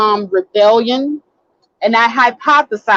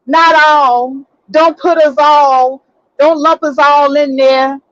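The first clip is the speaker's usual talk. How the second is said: slightly raised mock protest; mock protesting men; 3 semitones higher than usual. Host voicing so-called decent men, mildly mock protesting. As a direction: lightly imitate men objecting to being lumped in. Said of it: "they want me to say".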